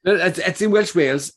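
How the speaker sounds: put-on a faint try at a Welsh accent; half-hearted Welsh accent. Answering his co-host, a weak Welsh accent attempt. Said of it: "neither of us can do the accent".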